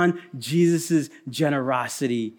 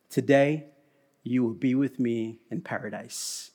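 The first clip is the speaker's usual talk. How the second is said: plain; 5 semitones lower, 7 dB quieter than usual. Retold or imitated. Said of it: "and he says".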